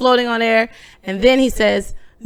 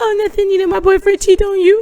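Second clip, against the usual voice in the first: put-on crying, much higher pitch; 4 semitones lower than usual. Retelling a woman's reply to a man, the speaker is imitating someone crying. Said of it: "He was trying to do the accent of a Bahamian man".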